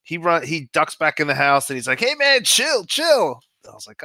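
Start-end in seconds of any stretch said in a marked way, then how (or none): 2.0-3.4 high, louder mock-panicked plea; urgent, much higher mimicked voice; retold alarmed plea. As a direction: imitate a player begging for a ceasefire. Shot player begs shooter to stop.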